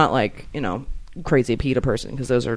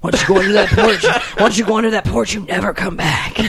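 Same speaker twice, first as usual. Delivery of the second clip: laughing spooky line; 4 semitones higher, 4 dB louder than usual. Acted. Ominous porch joke, laughing.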